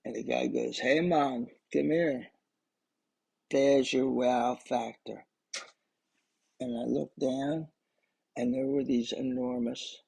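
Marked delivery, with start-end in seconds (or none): 0.8-5.2 put-on light Bahamian accent, last phrase slow; casual Bahamian dive guide, a bit slow. Dive master calling the tourist over, light Bahamian accent. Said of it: "because I did that accent".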